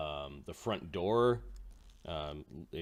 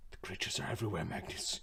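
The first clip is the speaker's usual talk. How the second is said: hushed warning; 2 semitones lower, 5 dB quieter than usual. Acted. Paranoid NPC warning quietly.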